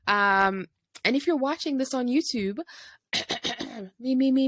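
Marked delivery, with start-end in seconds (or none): 4.0-4.5 vocal warm-up. Shown as a demonstration. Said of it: "let me get into my YouTuber voice".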